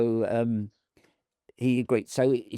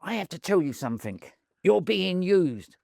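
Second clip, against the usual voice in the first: raised-pitch imitation of a promoter, slowing at the end; Don King; 7 semitones higher than usual. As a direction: mimic a promoter delivering a weighty warning. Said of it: "I can't do his accent".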